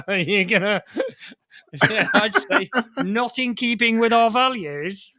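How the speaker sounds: laughing through the words; giggling while mocking the statement; amused, laughing disbelief. Real, not acted. Laughing at band's lofty statement.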